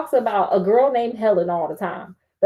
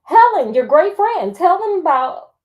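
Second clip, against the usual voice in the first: furious demand; 4 semitones higher, 3 dB louder than usual. Acted. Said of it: "I glared at her furiously".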